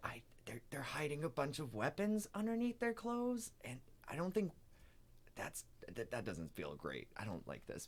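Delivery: very quiet, hushed whisper. Telling Saoirse privately about the travelers, whispering. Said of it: "I'm gonna whisper this all to Saoirse".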